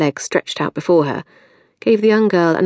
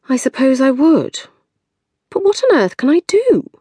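gloomy Maxine; 9 semitones higher than usual. A narrator's reading. Maxine despairing about needing a job, higher. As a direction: wail it helplessly.

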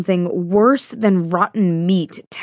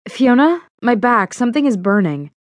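alarmed; 5 semitones higher than usual. Acted. Pain on her back.

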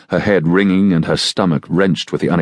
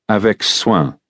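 command; 4 semitones higher than usual. A narrator's reading. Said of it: "the seigneur commanded".

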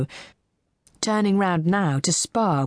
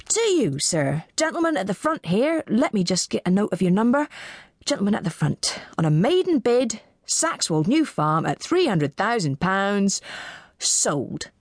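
auctioneer, starting higher then settling to sold; lightly voiced auctioneer; 4 semitones higher than usual. Auctioneer to the gentleman bidder, lightly formal. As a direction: close the sale with a hint of formality.

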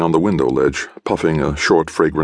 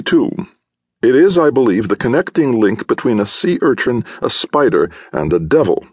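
higher, eager artist rattling on about the beast; an excited sculptor marvelling at a monster; Godfrey's animated voice; 5 semitones higher than usual. Acted. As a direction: lift the pitch and let the fascination run. Godfrey's long excited speech.

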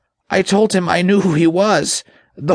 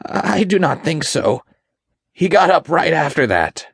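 high, meek demon whimper; timid, high-pitched underling; 11 semitones higher than usual. A narrator's reading. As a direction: whimper it as a cowed imp. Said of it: "The spirit whimpered".

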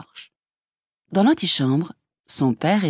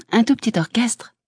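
gentle; 6 semitones higher than usual. A narrator's reading. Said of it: "répondit Laura avec douceur".

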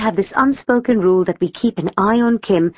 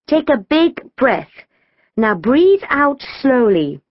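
coaxing; 6 semitones higher, slower than usual. A narrator's reading. Coaching sister through panic attack.

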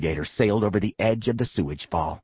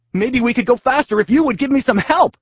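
put-on higher, louder boyish plea; a kid begging his own butt for help; Zach pleading; 13 semitones higher, 5 dB louder than usual. A narrator's reading. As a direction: hero voice, pleading. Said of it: "said Zach".

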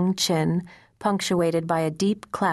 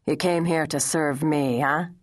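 gruff. Acted. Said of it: "he asked gruffly".

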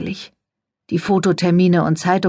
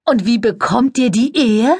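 very high, sugary society voice; gushing press lady; 5 semitones higher than usual. A narrator's reading. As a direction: coo it, all air kisses and fuss. Cordelia voiced in story.

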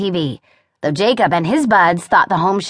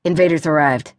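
terse bulletin delivery; short separate phrases, businesslike. Acted. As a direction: read it like a curt status report. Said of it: "His home space blog said tersely".

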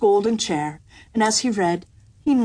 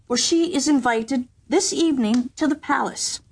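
higher, mildly grand courtier voice; pompous lord in waiting; 7 semitones higher than usual. A narrator's reading. Lord in waiting bargaining with the kitchen girl, lightly pompous. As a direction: promise rewards like a fussy noble.

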